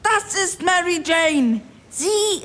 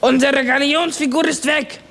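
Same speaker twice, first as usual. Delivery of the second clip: sudden alarm; 3 semitones lower than usual. Acted. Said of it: "sagte plötzlich".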